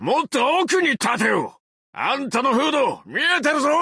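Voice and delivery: warning shout. Acted. Warns the Doctor.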